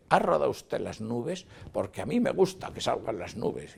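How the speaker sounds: high, imperious mock questioning; imposing demand. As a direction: demand it as if entitled. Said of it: "siempre con imposición".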